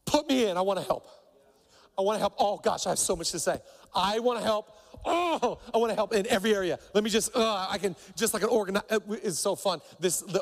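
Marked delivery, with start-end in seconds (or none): 0.0-8.8 a hint of an eager teammate begging to play; eager God, lightly voiced. God on the sideline begging the pastor to put him in, lightly eager. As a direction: rush the words, bursting to help. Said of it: "God just on the side, just going like".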